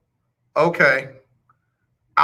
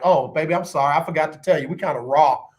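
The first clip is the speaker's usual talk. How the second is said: soothing apology; 2 semitones lower than usual. Retold or imitated. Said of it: "apologize to them, like".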